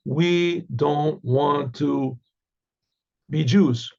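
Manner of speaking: slow, low, grudging we don't want to; sulky refusal. Retold or imitated. People refusing Moses, slow and sulky. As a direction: drag it out like a stubborn crowd.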